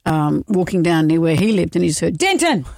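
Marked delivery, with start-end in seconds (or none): 2.2-2.6 high-pitched mock yell; retold dog-owner's call, pitched up; imitated calling out. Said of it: "was yelling out".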